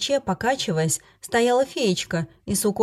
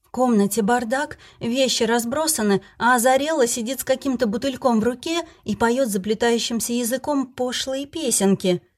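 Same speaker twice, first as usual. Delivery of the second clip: higher, tearful, rushed complaint; shaken tearful witness; 4 semitones higher than usual. Acted. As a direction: tell it through tears, upset. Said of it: "расплакалась".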